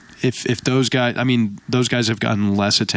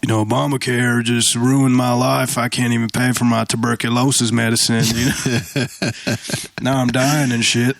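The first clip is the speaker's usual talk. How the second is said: mock Southern accent. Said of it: "I can go Southern like this".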